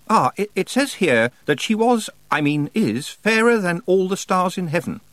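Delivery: high-pitched, halting bookish witch; Miss Tick, hesitant scholar. Acted. Miss Tick reads from the mythology book, hesitant. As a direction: pitch it high, stumble, then read out.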